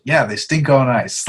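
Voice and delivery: slow, smug royal delivery; a hint of a smug monarch; mock king line. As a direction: drawl it like a pompous king. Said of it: "and then King Louis says".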